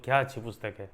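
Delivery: क्या stressed in a mildly admiring exclamation; emphatic exclamation. Shown as a demonstration. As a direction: marvel a little, leaning on क्या. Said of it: "ऐसे जोर देकर". (क्या पर ज़ोर, हल्का आश्चर्य)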